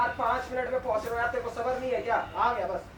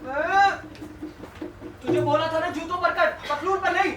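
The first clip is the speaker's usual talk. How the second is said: angry shout; 4 semitones higher than usual. Acted. Customer yelling at shoe-shiner.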